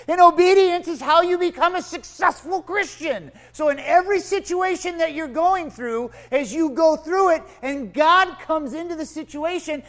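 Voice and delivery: loud, high, fervent sermon voice; full-force preaching. Acted. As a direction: preach it out to the whole room, building.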